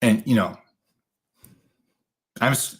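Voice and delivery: normal talking voice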